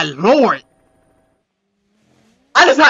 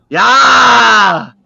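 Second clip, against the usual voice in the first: excited shout; 5 dB louder than usual. Real, not acted. Hyped reacting to rally clip.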